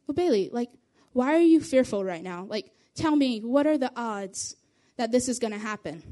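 gentle reassurance to a fearful friend. Shown as a demonstration. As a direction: coax a scared friend kindly. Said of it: "if instead I would have been like".

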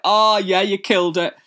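high, bright fake gush; mock gushing praise. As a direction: gush over it like a fan. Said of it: "and it's like".

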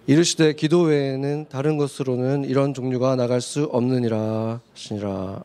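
even, level chant-like verse reading, sinking low at the close; scripture reading. Acted. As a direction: lead a congregation reading in unison. Reads closing verse in unison.

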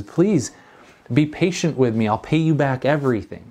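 the little servant begging not to be choked; desperate plea. Retold or imitated. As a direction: beg for mercy, pitch lifted. Second servant pleads his case.

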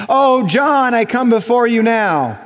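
lightly hammed-up pleading prayer; drawn-out words, as if praying to the boss; mock prayer voice. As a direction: intone it like a solemn petition. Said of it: "like you speak when you pray".

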